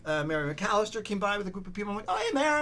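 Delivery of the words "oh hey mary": high, loud re-enacted greeting; calling out hello. Walker greeting an acquaintance on camera, re-enacted bright call. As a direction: hail a friend passing by.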